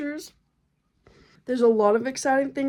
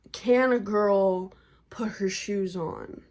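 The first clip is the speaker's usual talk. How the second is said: whispered plea; slower than usual. Real, not acted. Pleading about pregnant body.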